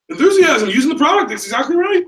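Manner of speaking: high, loud and energised; enthusiastic affirmation. Real, not acted. Trainer confirming the class's answer, enthusiastic. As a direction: ring out the answer with real zest.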